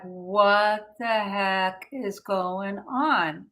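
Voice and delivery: puzzled. Retold or imitated. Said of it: "And I'm like".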